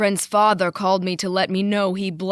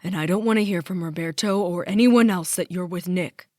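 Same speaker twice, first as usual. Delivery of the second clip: angry ranting; 3 semitones higher, 6 dB louder than usual. A narrator's reading. Daughter ranting at her father before he hangs up. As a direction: hurl every line at him.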